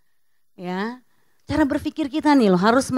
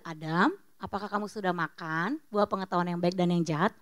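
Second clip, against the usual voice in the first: much softer, lower and tender; gentle question; 8 semitones lower, 8 dB quieter than usual. Acted. God gently asking Adam, soft and tender. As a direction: ask it kindly, like a patient father. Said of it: "Kan nggak".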